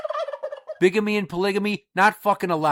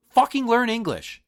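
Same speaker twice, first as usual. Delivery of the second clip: pitched higher, hit hard on "fucking"; emphatic demand; 7 semitones higher than usual. Real, not acted. Ranting at immigrants, demanding they learn English, emphatic. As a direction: bark it as a command. Rant, hammering home the demand.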